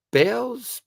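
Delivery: Bowes said as "bales", high; trying out Bowes as "bales"; mistaken pronunciation. Shown as a demonstration. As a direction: say Bowes to rhyme with "sails". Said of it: "Bowes, isn't it?".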